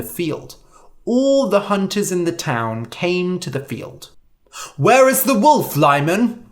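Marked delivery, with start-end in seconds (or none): 4.8-6.4 higher, louder urgent call; crying out. A narrator's reading. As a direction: call out, wanting answers. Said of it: "they cried".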